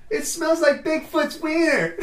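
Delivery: high, slow, laughing through the words. Real, not acted. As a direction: crack up while saying it.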